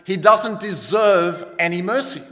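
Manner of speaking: slow, firm emperor's reply; mildly stern refusal; stern retort. Acted. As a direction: retort firmly, weighting each word. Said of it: "Napoleon retorted".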